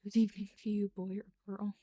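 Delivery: loud mock host greeting; a hammed-up welcome; character greeting. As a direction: greet them like a grand host.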